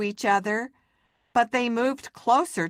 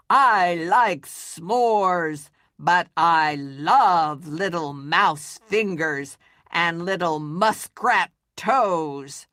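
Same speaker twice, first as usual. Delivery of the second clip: slow, louder, relishing monster voice; hungry monster; 3 dB louder, slower than usual. Acted. The speaker voicing the monster craving fingers and toes. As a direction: savour every word like a greedy beast. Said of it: "said the monster".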